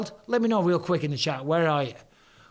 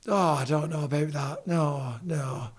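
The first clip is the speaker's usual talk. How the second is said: Yorkshire accent. Shown as a demonstration. Answering a viewer as a Yorkshire local would, Yorkshire accent. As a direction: play a doubtful Yorkshire local. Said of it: "they talk like that".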